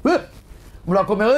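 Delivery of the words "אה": short mock yawn noise; imitated yawn. The storyteller imitates the rabbi in front of the priest, mock yawn. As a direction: mimic the rabbi yawning. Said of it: "פעם אחת הרב פיהק".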